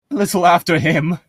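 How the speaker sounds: croaking. Acted. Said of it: "he croaks".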